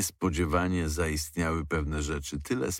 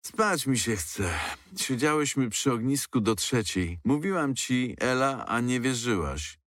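put-on lightly raised girlish voice, chatty; girls' voices; 5 semitones higher than usual. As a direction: read the girls' teasing banter a little higher. (lekko podwyższony, dziewczęcy głos)

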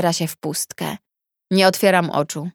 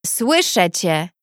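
triumphant; slower than usual. Acted. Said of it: "wybrzmiewa triumfalnie kobiecy głos".

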